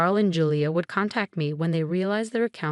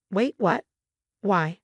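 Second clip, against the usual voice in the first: shocked exclaim; 2 semitones higher, slower than usual. A narrator's reading. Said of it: "Julia exclaimed".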